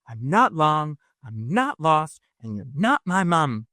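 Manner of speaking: put-on quoting in a light Essex accent. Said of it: "I need y'all in Joe's Essex, Essex accent just saying that".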